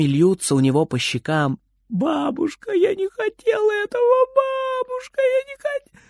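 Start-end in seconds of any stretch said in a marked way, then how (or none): 1.9-6.0 very high, tearful wailing; crying child. Acted. Frieder sobbing to grandma about the broken window. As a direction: wail through the tears, breaking off. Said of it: "начинает реветь".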